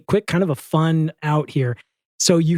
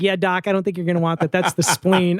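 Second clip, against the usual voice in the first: lightly voiced butcher; 4 semitones higher than usual. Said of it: "He's like".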